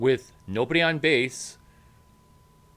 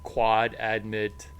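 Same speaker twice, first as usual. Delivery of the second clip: smug grad; 3 semitones lower than usual. Retold or imitated. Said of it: "And if you feel like".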